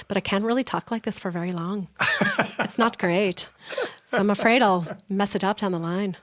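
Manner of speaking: lightly put-on Irish lilt; imperfect stage Irish accent; amateur Irish accent. Shown as a demonstration. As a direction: attempt an Irish accent, a bit unsure. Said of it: "I'm not great at Irish".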